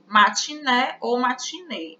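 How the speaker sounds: "Matiné" with an open E, then "matinê" with a closed E. Shown as a demonstration. Teacher to class, contrasting open and closed E. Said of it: "Essa eu já pronuncio com E fechado".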